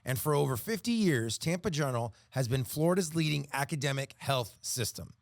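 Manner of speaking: polished sponsor read with crisp phrasing. Real, not acted. Announcer reads a hospital sponsor message, ad read. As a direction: read it like a radio health-system spot.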